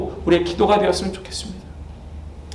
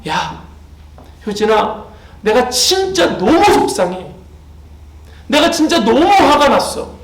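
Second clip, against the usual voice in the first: upset God confiding; 4 semitones higher than usual. Retold or imitated. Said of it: "이런 하나님의 음성을 들어본 적".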